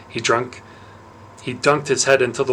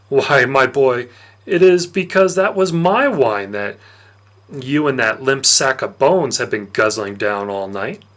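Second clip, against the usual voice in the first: sly Dionysus; 4 dB louder than usual. Acted. Dionysus taunting the boy who drank his wine, smug and loud. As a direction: savour the gotcha like a smug god.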